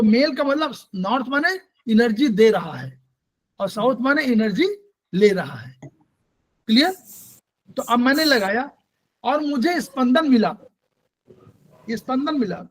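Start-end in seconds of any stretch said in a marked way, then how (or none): 5.8-6.9 drawn-out check. Real, not acted. Teacher checks understanding.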